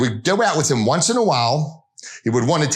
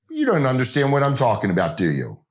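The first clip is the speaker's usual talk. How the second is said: very casual; 2 semitones lower than usual. Retold or imitated. Sales manager casually challenging clients at the table, offhand and relaxed. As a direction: lean back and toss it off like it's nothing. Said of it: "just very casually said".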